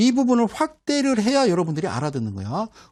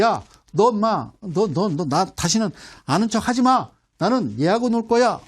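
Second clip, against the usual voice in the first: put-on louder, playful scolding of an old friend; mock telling off; 2 semitones higher, 4 dB louder than usual. Teacher playfully telling off a stock, mock angry. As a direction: snap at him like a sulky kid, half joking.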